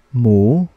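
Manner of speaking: "mu" long, dipping then rising; third tone. Shown as a demonstration. Teacher drilling learners in third tone, "mu" dipping and rising. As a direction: sink down on "mu" and climb back up. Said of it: "how would we read this third tone".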